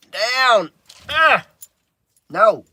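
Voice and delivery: loud, high, sharp "Down! Ah! No."; shouted command. Real, not acted. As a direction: bark the order at the dog. Dog jumping up, scolding.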